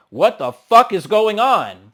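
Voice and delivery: high, loud, slow disbelief; mock shock. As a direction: stretch out the shocked question. Voicing Natalie's shocked face.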